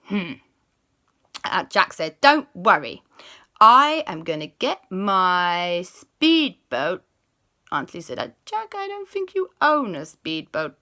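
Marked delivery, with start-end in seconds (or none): 2.2-7.0 confident boast. Acted. Jack boasting in story. 8.2-10.8 doubtful aunt. Acted.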